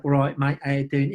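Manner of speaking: lightly voiced Cockney greeting; a hint of London geezer. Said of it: "This is gonna be a Cockney geezer".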